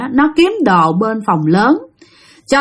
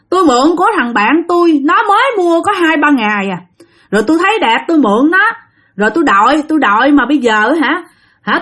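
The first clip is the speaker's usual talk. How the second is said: put-on much higher, rushed voice of a dead teen; voicing a young ghost, higher and faster; ghost's lament; 5 semitones higher, faster than usual. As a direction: plead your story as the spirit. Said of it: "nó nói rằng".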